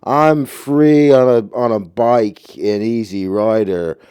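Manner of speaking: mock the carefree biker dude, mildly hammed; Easy Rider hippie. Mocking Peter Fonda's Easy Rider hippie, lightly voiced. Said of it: "playing this fake persona of like".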